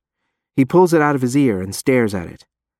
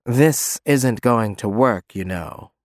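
grating smug; slower than usual. Acted. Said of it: "a voice that sets my teeth on edge".

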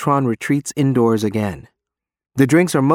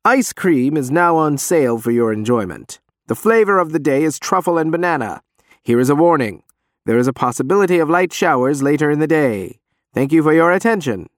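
loudspeaker announcement; 4 semitones higher than usual. Acted. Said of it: "continues the box".

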